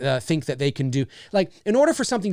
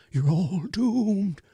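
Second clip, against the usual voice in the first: high, slow, quavering doom warning; Crazy Ralph; 4 semitones higher, much slower than usual. Retold or imitated. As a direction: let the warning shake as you stretch it out. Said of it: "He's up here like this".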